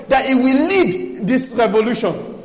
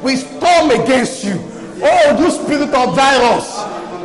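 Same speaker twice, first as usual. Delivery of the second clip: fiery warfare prayer; 2 semitones higher, 3 dB louder than usual. Acted. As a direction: command the darkness with force. Rebuking the virus spirit in prayer.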